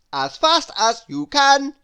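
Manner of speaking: high, loud push; bossy urging. A narrator's reading. Busy loudly urging Lazy to run fast. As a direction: spur him on. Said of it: "added Busy".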